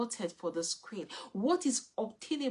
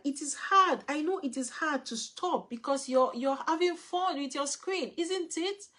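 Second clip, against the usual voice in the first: empathetic parent; 5 semitones higher than usual. Shown as a demonstration. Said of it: "you can say something like".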